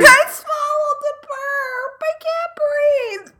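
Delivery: slow strained creature croak; rancor voice. Real, not acted. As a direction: croak it out like a beast holding a burp. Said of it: "You sound like a rancor".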